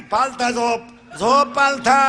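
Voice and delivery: loud stern command; shouted order. Retold or imitated. Doctor to the boy, a loud command. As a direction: bark it at the patient. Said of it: "doctor orders".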